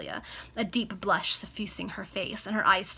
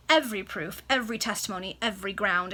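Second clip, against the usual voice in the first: impatient; 4 dB louder than usual. Acted. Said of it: "interrupted the baronet impatiently".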